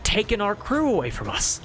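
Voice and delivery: a lightly voiced captain telling his tale; weary pirate captain. The captain tells the noble how shrimp people sank his ship, lightly voiced. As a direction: recount the shipwreck like a tired old salt.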